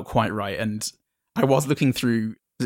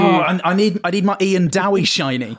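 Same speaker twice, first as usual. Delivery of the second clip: put-on higher, louder eager kid voice; excited kid; 9 semitones higher, 7 dB louder than usual. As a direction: beg for the shiny sticker like a kid. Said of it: "I was like".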